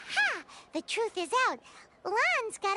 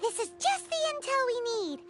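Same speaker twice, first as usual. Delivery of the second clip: excited cheer; 3 semitones higher than usual. Acted. Paimon cheering the new lead, excited. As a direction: cheer at finally getting a lead.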